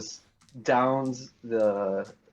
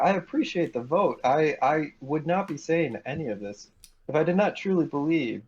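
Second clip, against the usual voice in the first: insincere gratitude; 3 semitones higher than usual. Acted. He's just a straight up liar.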